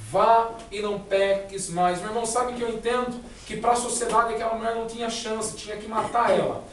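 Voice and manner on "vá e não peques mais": slow, grave words of Jesus; solemn Jesus. Acted. Preacher as Jesus, sending the sinful woman away, slow and solemn. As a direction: let each word land slowly, gently.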